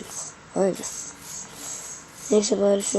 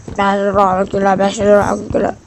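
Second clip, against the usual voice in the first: loud hawker cry repeating prices; street vendor call; 6 dB louder than usual. Retold or imitated. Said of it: "diye sesler gelebilir".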